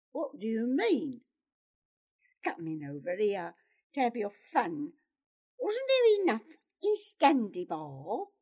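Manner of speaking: worked-up, affronted challenge; indignant accusation. Acted. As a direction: hurl the accusation at him. Pyotr confronts Gerard in a quarrel.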